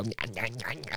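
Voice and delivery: mock someone's chatter with nonsense syllables; mocking jabber. Friend mimicking a driver on her phone, mocking jabber.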